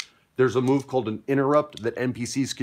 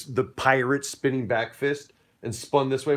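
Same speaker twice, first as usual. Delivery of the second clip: ordinary delivery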